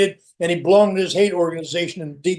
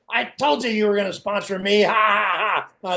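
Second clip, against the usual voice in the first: mock gloating taunt. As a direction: crow it teasingly, ending on a mock ha-ha-ha. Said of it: "Joyce goes like this".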